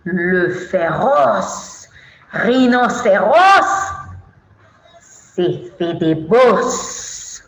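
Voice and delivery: put-on slow, measured children's poem recital; poem recitation. Shown as a demonstration. Teacher presenting an animal poem to children, slow recitation. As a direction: draw out the line-end words for children.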